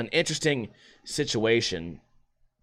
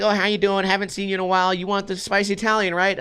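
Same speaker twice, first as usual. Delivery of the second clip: lightly voiced counter worker, higher pitch; imitated friendly sandwich server; 6 semitones higher than usual. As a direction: greet a regular customer in a quick, raised voice. Voicing friendly Subway staff greeting a regular.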